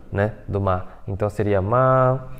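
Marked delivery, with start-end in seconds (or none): 1.6-2.3 "ma" with a long, level A; "ma" held evenly on one pitch; stretched first tone. Shown as a demonstration. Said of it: "esticando essa letra A aqui".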